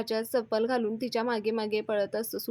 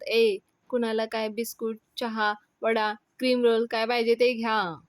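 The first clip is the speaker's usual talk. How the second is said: lightly raised voice to everyone; mild calling out; 3 dB louder than usual. Acted. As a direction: announce a treat to the crowd. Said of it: "सगळ्यांना ओरडून म्हणतात". (जरा ओरडून सगळ्यांना)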